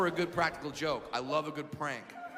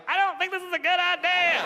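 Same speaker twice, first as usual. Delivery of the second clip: high, louder nervous whimper; scared whine; 9 semitones higher, 5 dB louder than usual. Retold or imitated. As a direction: plead like a scared grown man. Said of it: "a thirty-year-old man like".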